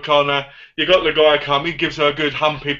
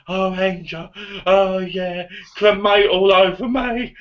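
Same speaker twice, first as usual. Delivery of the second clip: leprechaun voice; 4 semitones higher, slower than usual. Retold or imitated. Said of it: "You sound like Leprechaun".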